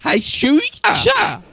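very high, slow falsetto; squeaky girly voice. Pretend. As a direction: coo it like a girl. Teasing strangers in squeaky voice.

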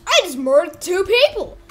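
high, loud outburst; frantic exclamation. Acted. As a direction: cry it out in play-acted alarm. Character reacts to own killings.

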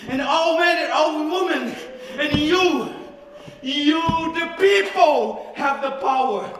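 rising, emphatic oratory; ranting dictator speech. Acted. Rousing the crowd in a speech.

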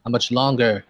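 yelling back. Acted. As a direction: shout it back with an edge. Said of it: "I yell back to him, an edge to my voice".

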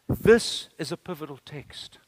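ordinary talk, nothing marked

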